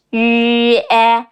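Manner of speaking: 日 as long "yu", then e as "eh"; two joined vowels. Shown as a demonstration. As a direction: slide from 日 into e on a level tone. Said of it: "add an e sound after it".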